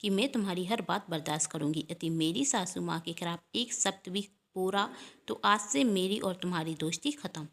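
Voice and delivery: a mild, retold flash of anger at a friend; firm, understated anger, only lightly voiced; retold angry retort. Anjali, retelling to her husband what she snapped at her friend, in mild anger. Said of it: "मैंने भी गुस्से में कह दिया".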